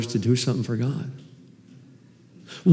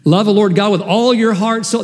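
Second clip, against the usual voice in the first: raised louder and higher, stress on all; emphatic; 6 semitones higher, 4 dB louder than usual. Shown as a demonstration. Preacher driving home the commandment, emphatic. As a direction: preach it with force, hitting all. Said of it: "That's not easy".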